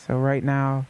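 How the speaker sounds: soothing guided meditation pace. Acted. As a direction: talk them gently into their body, unhurried.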